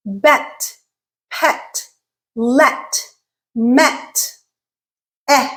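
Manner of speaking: isolated words with open eh as in bet; bet, pet, let, one at a time; eh sound examples. Shown as a demonstration. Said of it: "we have the eh".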